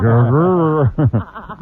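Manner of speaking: a hammed-up tough growl; mock growl. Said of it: "He's like".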